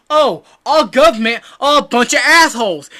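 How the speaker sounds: loud, high put-on voice for the townsfolk; quoted islanders. Islanders telling Luffy about their government, high and loud. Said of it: "Then they tell him".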